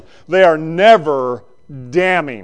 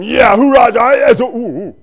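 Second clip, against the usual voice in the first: louder, higher hooray that sours into an ooh; mock cheer; 7 semitones higher, 8 dB louder than usual. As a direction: ham up a believer's cheer going sour. Mock believer cheering then wincing.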